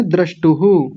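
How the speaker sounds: द्रष्टुः with a voiced "hu" echo at the end; visarga pronounced. Shown as a demonstration. Teacher showing a student what to say, द्रष्टुः ending in "hu". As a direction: finish द्रष्टुः on a clear "hu". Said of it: "यहाँ बोलना है".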